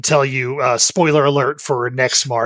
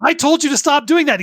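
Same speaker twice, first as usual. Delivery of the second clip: much higher, scolding voice; imitating Wook Lamont; 11 semitones higher than usual. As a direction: scold him like an exasperated lady. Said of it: "and then she's like".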